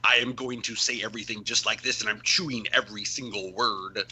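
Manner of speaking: every word of "chewing every single word" chewed and over-articulated; "every single word" worked round the mouth, imitating an actor's American accent. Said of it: "people chew their words as much".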